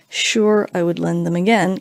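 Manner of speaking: imitated sarcastic agreement. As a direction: agree while clearly meaning no way. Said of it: "in a very sarcastic tone of voice".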